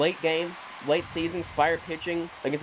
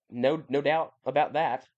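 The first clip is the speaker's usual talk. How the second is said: put-on British accent; slower than usual. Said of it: "I say in a British accent".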